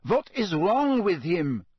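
put-on puzzled young Bulgarian, slow; visiting student in alarm, Bulgarian accent. A narrator's reading. Krum speaking.

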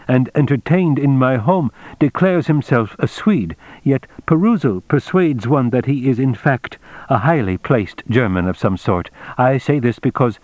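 a hint of a courteous, formal official; Mr Tagomi, formal. Tagomi explains his suspicion of a guest, lightly voiced formal tone.

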